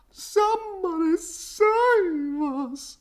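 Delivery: high, slow panicked cry; shrieking. A narrator's reading. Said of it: "shrieked the dogs".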